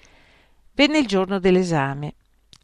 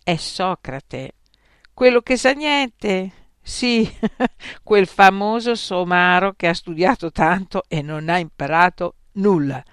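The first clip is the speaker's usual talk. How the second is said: mocking gossip; 3 semitones higher, 6 dB louder than usual. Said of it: "diceva la gente additandolo".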